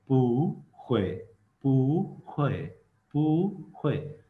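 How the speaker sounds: पू in second tone, then ख्वे falling in fourth tone; tone change demo. Shown as a demonstration. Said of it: "fourth tone में से second tone पे चली गई". (पू second tone में, ख्वे फोर्थ टोन में)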